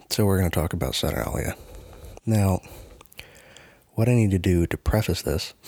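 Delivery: slightly nasal, stuffy voice. Real, not acted. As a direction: talk a bit through the nose. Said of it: "I sound a little nasally today".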